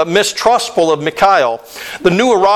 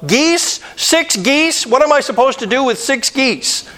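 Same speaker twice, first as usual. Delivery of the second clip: much higher, disbelieving squeak; incredulous; 7 semitones higher than usual. Acted. Letter writer stunned at six geese, high and incredulous. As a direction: gasp out the question in disbelief.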